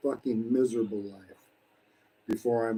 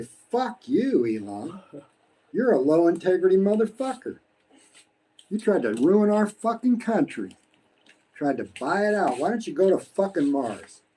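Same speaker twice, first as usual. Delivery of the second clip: imagined angry retort; 5 semitones higher than usual. Retold or imitated. Imagined refusing Elon Musk's offer, angry and scornful. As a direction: tear into him with contempt.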